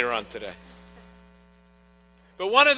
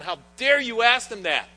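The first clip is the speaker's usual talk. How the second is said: acting out the apostles' indignant quarrel, higher and louder; angry argument; 6 semitones higher, 6 dB louder than usual. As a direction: voice the apostles arguing, raised and indignant. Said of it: "You can just hear the argument".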